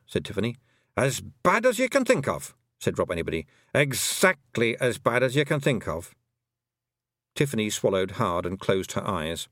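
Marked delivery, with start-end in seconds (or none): 1.0-6.1 a Feegle chief turning solemn; grave Scottish pixie. Acted. Rob Anybody warns Tiffany of the other side, grave Scots Feegle.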